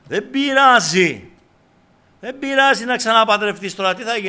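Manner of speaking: loud, high mock reassurance; permissive voice. Preacher mimics ear-tickling advice that sin doesn't matter, loud mock reassurance. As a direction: wave it all away at high volume. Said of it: "Πώς μου γαργαλίζει την ακοή".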